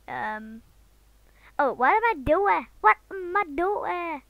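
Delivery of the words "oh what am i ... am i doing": high, loud exclaiming, dragging out the repeat; shouting. Real, not acted. Vlogger questioning what they are doing, shouting. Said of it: "I'm shouting so much".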